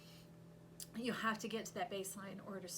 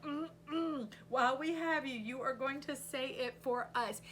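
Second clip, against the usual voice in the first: higher, louder, playfully stubborn; defiant insistence; 4 semitones higher, 4 dB louder than usual. Retold or imitated. The viewer insisting to spirit, a playful defiant tone. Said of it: "you're like".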